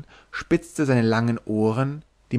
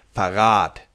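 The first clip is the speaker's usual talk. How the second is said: growling; 3 semitones lower, 4 dB louder than usual. Acted. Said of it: "grollte der mit dem Sarg".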